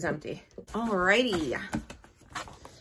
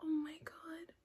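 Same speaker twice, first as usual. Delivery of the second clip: whispered in wonder; awed whisper; 8 semitones higher, 14 dB quieter than usual. Real, not acted. Seeing the finished tree, a whispered awe. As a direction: breathe it out softly.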